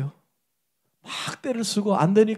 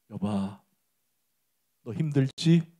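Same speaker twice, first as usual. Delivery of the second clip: softer, slow and gentle voice of God; God speaking; 4 semitones lower, 4 dB quieter, slower than usual. Retold or imitated. God questioning suffering Job, soft and slow. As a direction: ask him tenderly, slowly, with long pauses. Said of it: "이렇게 얘기해요".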